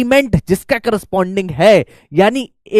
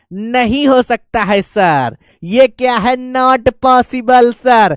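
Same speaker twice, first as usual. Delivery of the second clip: mildly protesting student, a bit slower; imitating a student; 2 semitones higher, slower than usual. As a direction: play a student lightly complaining to sir. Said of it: "तो बेटा बहुत अच्छी बात है". (छात्र की हल्की शिकायत की नकल)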